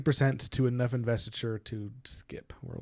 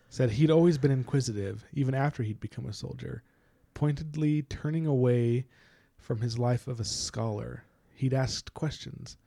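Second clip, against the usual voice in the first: reading aloud. A narrator's reading. Host reads a hint sentence to co-host, deliberate reading. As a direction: read the passage out, phrase by phrase.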